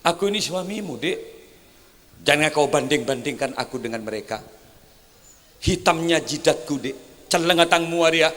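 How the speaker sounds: soft, coaxing husband to his wife; husband softly calming his angry wife; tender plea. Pretend. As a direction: gently sweet-talk an angry wife. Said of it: "Katakan pada istrinya".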